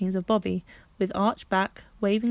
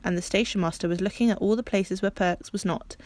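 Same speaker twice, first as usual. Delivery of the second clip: ordinary delivery, nothing marked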